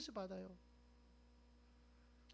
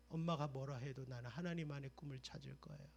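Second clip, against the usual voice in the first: ordinary talk, nothing marked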